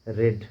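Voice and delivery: रेड with a short open "e", like "red"; past-tense pronunciation. Shown as a demonstration. Teacher showing how past-tense read is pronounced, clear demonstration. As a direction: say रेड to rhyme with "bed". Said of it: "लेकिन उच्चारण होता है इसका".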